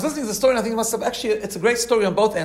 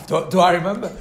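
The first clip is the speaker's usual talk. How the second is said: laughing. Retold or imitated. Embarrassed laughing reply in retelling.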